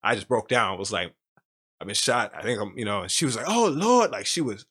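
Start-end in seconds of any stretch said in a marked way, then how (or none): 1.8-2.8 choked up. Real, not acted. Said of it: "I'm about to tear up". 3.5-4.1 alarmed mother. Retold or imitated. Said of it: "she was freaking out".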